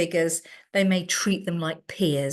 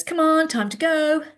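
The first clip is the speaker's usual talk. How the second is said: higher, louder brisk call; hurrying adult; 9 semitones higher, 5 dB louder than usual. Retold or imitated. Adult hurrying a teen to leave, brisk. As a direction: urge her out the door, brisk.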